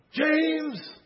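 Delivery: high, full-force joyful shouting; shouts of joy. Acted. God rejoicing over a beloved child, shouted very loud and high. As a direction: bellow love at the top of your voice. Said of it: "shouts of joy".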